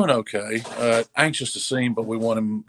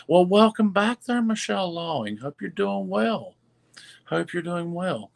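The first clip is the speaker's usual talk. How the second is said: excited greeting; 8 semitones higher than usual. Real, not acted. Greeting a returning viewer.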